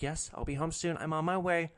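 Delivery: a hint of a sheepish child; child answering a parent. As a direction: sound like a kid apologizing to mom. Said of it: "like a child answering for the parent".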